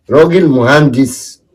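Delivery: "راجل مهندس" drawn out slowly with weight on "راجل"; slow emphasis. Acted. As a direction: savor the words "راجل مهندس" with pride. (تأكيد بطيء على كلمة "راجل")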